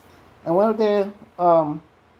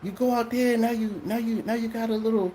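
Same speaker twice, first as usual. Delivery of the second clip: imitating the pastor; 5 semitones higher than usual. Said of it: "He said".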